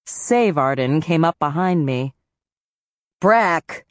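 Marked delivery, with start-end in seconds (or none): 3.2-3.9 gasping out the name, winded; breathless after running to catch up; out of breath. Acted. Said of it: "she gasped, out of breath".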